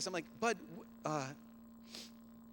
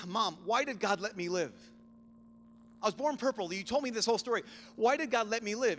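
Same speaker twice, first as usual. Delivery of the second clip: put-on pleading child; 4 semitones higher, 3 dB louder than usual. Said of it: "he'd ask this question".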